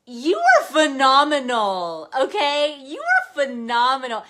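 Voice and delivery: cheering her daughter on at the top of her voice; proud shout. Retold or imitated. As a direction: yell it across the parking lot, full of pride. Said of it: "I was, like, screaming".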